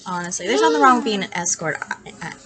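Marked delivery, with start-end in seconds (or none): 1.8-2.3 whispered aside. Real, not acted. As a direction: drop to a breathy whisper aside. Hushed aside about the escort remark.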